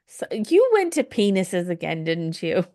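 teasing whisper. Real, not acted. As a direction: hush it like a secret. Teasing friend about dirty joke.

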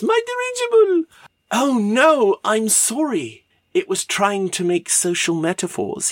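very high mock lament; comic wail. Verne as his dirigible is blown up, high comic wail. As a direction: wail it high, then ease down into an apology.

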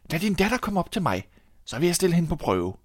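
king's voice. Acted. King summons miller's daughter.

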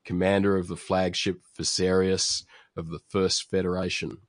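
loud, grand cartoon announcer; booming announcer voice. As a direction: boom it out like a cartoon narrator. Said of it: "we get a booming voice saying".

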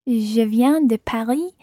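ordinary delivery

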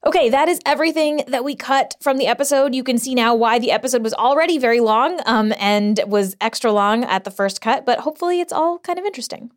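muffled blanket fort recording; muffled, closet under a blanket. Real, not acted. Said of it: "I'm recording this under a blanket, uh, fort here in a closet".

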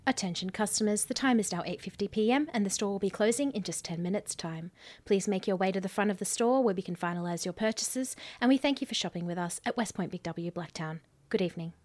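store announcement voice; over a PA system. Shown as a demonstration. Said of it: "you're good at that voice too".

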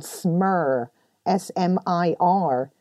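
smir said slowly, then spelled out letter by letter; spelled-out word. Shown as a demonstration. Naming Scottish fine rain, slow and spelled out. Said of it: "It's called".

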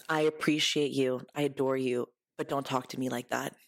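kind but firm boundary; gentle, sincere correction. Retold or imitated. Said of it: "I was very kind".

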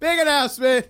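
mock Oprah. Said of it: "it sounds like you're working out".

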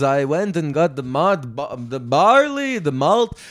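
put-on singsong Jewish accent with stretched words; Jewish guy impression. Host tells of making bagels, mock Jewish accent. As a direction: do a hammed-up Jewish accent, swooping up and down. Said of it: "I'm doing a Jewish guy".

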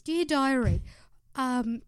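lightly voiced Cass reading her diary; a mild mock of an earnest wish list; a hint of a sweet, hopeful diary voice; Cass impersonation. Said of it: "That was a pretty good impersonation".

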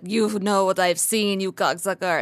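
slow, lightly voiced dog impression; comic world-weary dog. Retelling a dog's bit from a comedy special, slow mock jaded voice. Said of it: "it's the dog being like".

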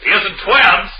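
high, grand stage swami; hammy mystic showman. Acted. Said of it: "We have the Swami up here on the stage".

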